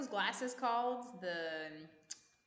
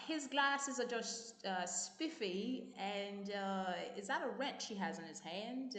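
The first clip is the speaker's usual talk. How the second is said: put-on British accent; slower than usual. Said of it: "give us your British accent".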